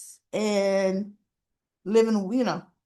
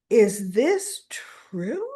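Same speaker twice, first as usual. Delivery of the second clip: slow whispered question; hushed question; much slower than usual. Retold or imitated. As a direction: whisper it slowly, pointed. Ronnie confronting Drew.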